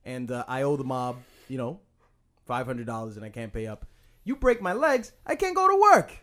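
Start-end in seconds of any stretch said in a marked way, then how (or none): 4.2-6.1 high, loud, desperate pleading; pleading debtor. Pretend. Debtor begging the mob enforcer, high and desperate. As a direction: beg the mob guy not to break your legs.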